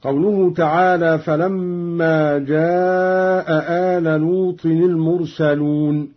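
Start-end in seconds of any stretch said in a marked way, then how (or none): 1.2-6.1 جاء آل recited slowly, both hamzas kept; standard reading with hamza. Shown as a demonstration. Teacher recites the verse before showing Qalun's reading. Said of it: "قرأ قالون بإسقاط الهمزة".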